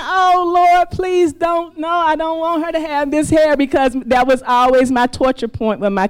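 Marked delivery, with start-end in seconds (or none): 0.0-3.5 mock dread. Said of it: "And I'm thinking".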